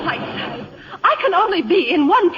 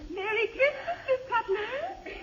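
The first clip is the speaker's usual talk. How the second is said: quiet; 8 semitones higher, 12 dB quieter than usual. Acted. Harriet softly greets, teary.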